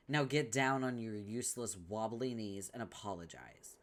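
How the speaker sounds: normal talking voice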